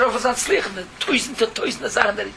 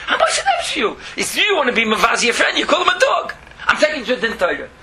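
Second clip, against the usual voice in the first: laughing dog. Acted.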